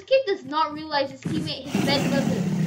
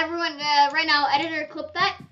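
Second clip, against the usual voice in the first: excited callout; 3 semitones higher, 6 dB louder than usual. Real, not acted. Calls editor to clip it.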